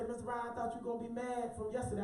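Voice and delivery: soft, quick and timid; scared quiet student. Retold or imitated. Student apologizing to the teacher, quiet and timid. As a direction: mumble it like a kid expecting trouble. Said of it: "they all scared and real quiet".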